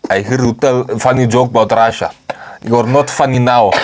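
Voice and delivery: lightly put-on Russian accent; Putin impression. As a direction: do a mock Putin, thick Russian English. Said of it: "Putin himself will come, like".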